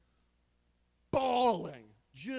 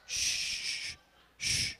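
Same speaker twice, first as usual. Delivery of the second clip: shushing. Real, not acted. Hushing the congregation.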